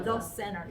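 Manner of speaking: the with tongue between teeth; proper th sound. Shown as a demonstration. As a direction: bite the th in the center. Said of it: "항상 티에이치 발 하셔야 돼요". (혀를 물고 the center)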